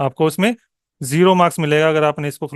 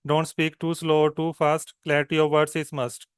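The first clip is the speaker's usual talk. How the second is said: steady, even natural speed; even demo read at normal speed; natural pace demo; much slower than usual. Shown as a demonstration. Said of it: "this way".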